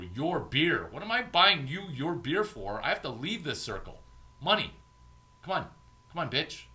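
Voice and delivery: high, rising into a loud taunting demand; cocky comeback. Acted. Hustler flipping the insult back, loud taunting demand. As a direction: play the cocky one turning the tables. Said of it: "'Cause Larry doesn't pay for shit".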